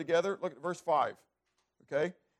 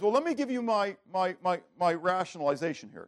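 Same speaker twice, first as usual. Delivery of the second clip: a hint of an excusing king, louder; lightly voiced Saul; 2 semitones higher, 4 dB louder than usual. King Saul excusing himself to Samuel, lightly mocked. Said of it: "Saul says".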